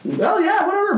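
high, sarcastic whatever; mock brush-off. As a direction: wave them off with sneering boredom. Mocking dismissive brush-off.

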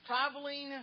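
usual speaking voice

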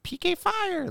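high-pitched hype call; friend's hype shout. Retold or imitated. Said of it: "he would always be like".

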